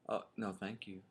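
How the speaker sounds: soft, courteous decline; softly imitating a polite young man; polite refusal. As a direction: turn a stranger down gently.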